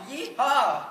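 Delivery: hollered yeehaw; cowboy whoop. Acted.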